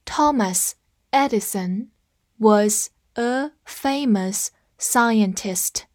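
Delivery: very slow, each word set apart; slow teacher read-along. Shown as a demonstration. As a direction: read it slowly so students can follow. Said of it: "跟我慢读一遍".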